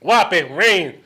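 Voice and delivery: loud mock Austrian bodybuilder; hammed-up Arnold Schwarzenegger accent. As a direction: bark it like Arnold. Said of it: "He's got a Arnold".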